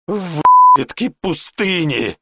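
high, loud and drawn-out bellow; furious yell. Acted. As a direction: roar the curse slowly. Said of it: "проорал Жбаш".

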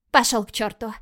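sharp loud outburst. Acted. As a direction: blurt it out loudly. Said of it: "вырвалось у Мишель".

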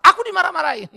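put-on loud, high complaint of a sulky kid; whiny child. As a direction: whine it like a scolded child. Child complaining about being scolded. (rengekan anak yang dimarahi)

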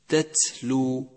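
slow, drawn-out تتلو with both ت clear; إظهار التاءين. Shown as a demonstration. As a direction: articulate each ت in تتلو separately. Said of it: "بل يجب التوضيح". (نطق تتلو ببطء مع توضيح التاءين)

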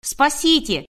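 high, frightened call for rescue; terrified cry. A narrator's reading. Woman hoping the neighbours hear her screams, terrified cry. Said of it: "соседи услышат мои вопли".

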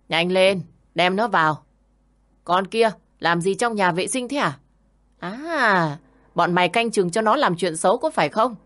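gangster yelling. Acted. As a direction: storm in and shout at the girls. Brothel thugs burst in. (quát tháo hung dữ)

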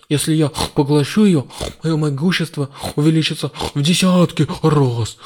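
loud gloating demon; crazed villain revelling in power; mad scientist. Acted. (безумный злодей)

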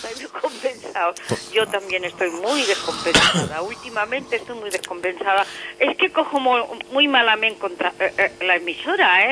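close, boomy mic sound; speaking right into the mic; too close to mic. Real, not acted. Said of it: "Sepárate un poco del micro". (pegado al micrófono)

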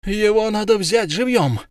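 high, fierce cry of a grieving mother; mother of the murdered girl shouting to keep him alive; angry shout. Acted. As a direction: shout it through rage and grief. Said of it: "кричала она".

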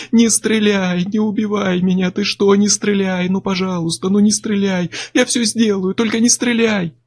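high, wailing begging cry; sobbing plea. A narrator's reading. Chuck crawls to Miller begging him not to shoot, sobbing. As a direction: beg for your life through tears. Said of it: "Он кричал, рыдал и всхлипывал".

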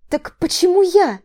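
громко и выше, с нажимом на «я»; переспроси, требуя ответа; настойчивый вопрос. Acted. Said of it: "Поинтересовалась я". (напористо переспрашивает)

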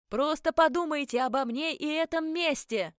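high, loud far-away call; distant calling. A narrator's reading. Captain's last words to vanishing heroine, calling from afar. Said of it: "послышалось уже вдалеке".

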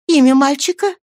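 high, loud question; eager demand. A narrator's reading. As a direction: demand the name urgently. Matron demands the name.

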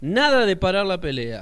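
grito más agudo y fuerte, lento; grito de orden. Acted. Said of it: "gritó el Piojo". (el Piojo grita a todos que se aparten)

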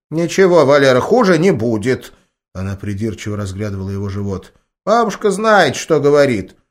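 put-on high, loud old woman voice; granny brushing off his protest; insistent grandma. A narrator's reading. Grandma reassures grandson firmly, high granny voice.

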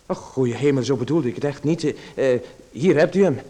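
embarrassed and fluster, rising as he hands it over. Acted. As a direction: scramble to make amends. Flustered, hands back the tie.

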